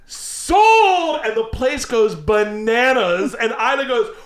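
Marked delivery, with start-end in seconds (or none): 0.1-1.2 slow, high auctioneer going once; slow, high mock auctioneer; auctioneer count. Auctioneer closing sale.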